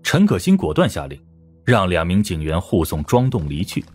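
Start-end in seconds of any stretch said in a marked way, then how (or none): none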